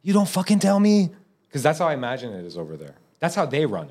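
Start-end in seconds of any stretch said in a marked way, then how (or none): 0.0-1.1 a hint of a high, bossy tyrant; bossy mogul. Imagined boss ordering Cinderella about, mildly pushy. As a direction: boss Cinderella around with mock swagger. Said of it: "he's like".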